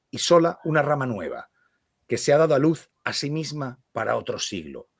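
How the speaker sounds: deliberate storytelling read-aloud; lectura literaria. Acted. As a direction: read it phrase by phrase, letting sentence ends settle. Lee en voz alta. (lectura literaria pausada)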